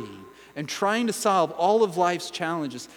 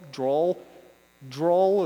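fumbling for a word. Real, not acted. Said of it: "there's a word I'm trying to say".

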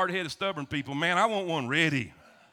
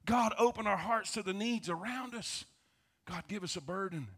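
praying softly; 3 dB quieter than usual. Shown as a demonstration. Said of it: "We gotta pray".

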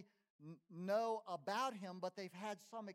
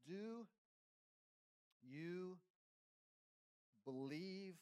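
quiet, searching question; 5 dB quieter than usual. Real, not acted. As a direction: ask it gently and let it sink in. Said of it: "the question this morning for you".

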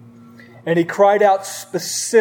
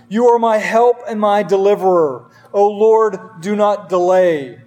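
louder, pressing cry for help; urgent desperate plea; 3 dB louder than usual. Acted. Pastor reading David's psalm aloud, urgent desperate plea. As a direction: read it as a man begging for rescue. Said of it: "Listen to the urgency and the desperation".

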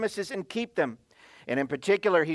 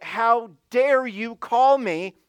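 indignant tone; 2 semitones higher than usual. Retold or imitated. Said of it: "the tone of his voice was like".

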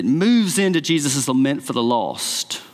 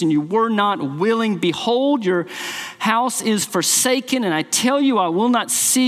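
higher, grieving lament, lightly voiced; earnest lament; 4 semitones higher than usual. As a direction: cry out over the city with longing. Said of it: "this earnest, full-hearted lament".

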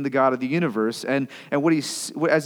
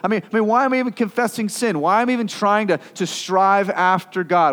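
high, loud, pressing why questions; raised exasperated voice; exasperated complaint; 6 semitones higher, 5 dB louder than usual. Retold or imitated. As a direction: vent frustration at God. Psalmist voiced in despair.

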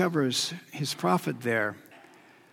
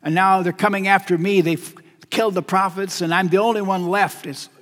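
acted outpouring of pain, pitch slightly raised; a preacher voicing an anguished complaint, understated; Elijah's pained lament; 3 semitones higher than usual. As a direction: pour out a grievance, building a little toward the end. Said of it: "Elijah just pours out the pain in his heart".

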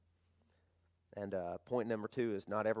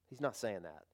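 quieter repeat; 5 dB quieter than usual. Shown as a demonstration. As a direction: repeat it softly, letting the voice fall.

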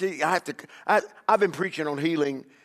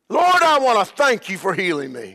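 louder, confident thanks to God; thankful prayer; 4 semitones higher, 6 dB louder than usual. Retold or imitated. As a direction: pray it as gratitude, not pleading. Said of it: "That's the correct way to approach him".

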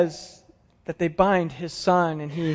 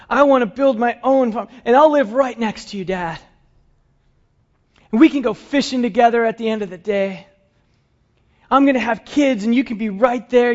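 put-on eager boy's voice, higher and bright with hope; voicing young Isaac; 4 semitones higher than usual. Preacher voicing Isaac asking his father for cattle, eager and higher.

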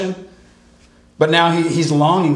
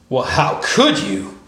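slow, hammed-up indignant whine; sarcastic mock indignation; mock outrage; slower than usual. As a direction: play the fake offended disciple. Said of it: "kind of a faux outrage".

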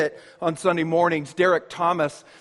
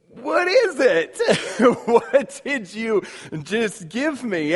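puzzled. Acted. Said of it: "that awkward pause".

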